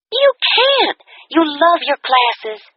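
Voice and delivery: high, quick worried questions; concerned friend. A narrator's reading. Kathy senses something is wrong, worried and high.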